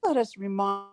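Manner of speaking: choppy, dropping-out call audio; bad connection cutting words; breaking up. Real, not acted. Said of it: "Shh, you're breaking up".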